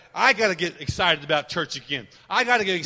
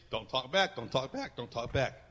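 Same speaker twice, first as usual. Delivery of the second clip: 1 mild scolding parent; 5 semitones lower, 8 dB quieter than usual. Retold or imitated. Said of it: "we're taught that as kids".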